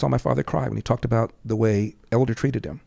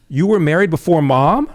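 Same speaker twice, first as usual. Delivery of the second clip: surprised; 5 semitones higher, 6 dB louder than usual. Retold or imitated. Son shocked by dad's revelation.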